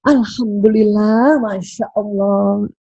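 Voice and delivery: a slow, hushed thanks to God; slow and reverent. Shown as a demonstration. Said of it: "yang lebih tinggi dari dahsyat".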